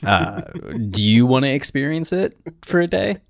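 lightly voiced, sugary politeness; polite king. King politely offering his throne, mock sweet. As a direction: offer it sweetly, only a touch put on. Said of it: "So politely".

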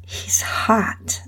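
breathy voiceless hush, a bit high; whisper. Acted. Friend whispering about the cute guy across the room. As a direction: murmur it under her breath. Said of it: "she whispered".

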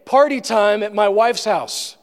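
a hint of a king throwing a party; playful party host. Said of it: "the king, is saying".

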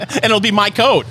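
laughing through the words; chuckling while talking. Real, not acted. Joking, laughing at himself.

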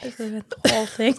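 playful whispered lament; whispered mock apology. Co-host insisting on the blame as host laughs, whispered. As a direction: keep confessing in a whisper.

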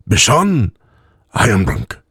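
tipsy, halting conclusion; drunk elf. A narrator's reading. Drunk elf confessing to Bishan, halting tipsy voice.

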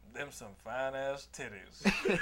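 lightly hammed-up Southern redneck; redneck drawl. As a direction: leer it out like a hick. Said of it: "he goes".

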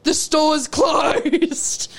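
slow, drawn-out mock yell; imitating the angry stranger, slow and laughing; mock shout. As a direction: stretch it out, half laughing. Lady announcing store closed.

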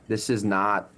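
usual speaking voice

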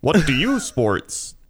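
lightly voiced clumsy chatbot. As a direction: drone like a dumb chatbot. Imitating chatbot replies.

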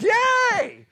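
high, loud mock cheer of the congregation; a big fake-excited cheer from the pew. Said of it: "everybody's like".

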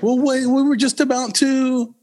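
mock-beg the guest to stay; pleading host. Party host imitated stalling a departing guest, mock pleading. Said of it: "and then it's like".

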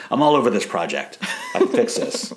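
high-pitched, hammed-up keenness with a laugh; mock eager promise. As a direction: pipe up as the overeager fixer. Acted eager promise from the show.

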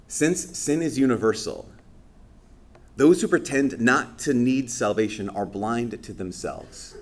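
slow, measured reading voice; catechism reading. Acted. Priest quoting the catechism to the congregation, slow. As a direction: read the line out deliberately.

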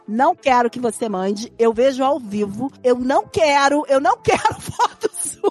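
quoting him with a laugh breaking through; mock boyfriend voice, laughing. Friend quoting boyfriend's refusal, laughing at the end. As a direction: voices her boyfriend, cracking up midway.

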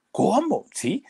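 high-pitched disbelieving question; astonished. Retold or imitated. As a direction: act out the singer's stunned surprise. Acts singer's astonished reaction.

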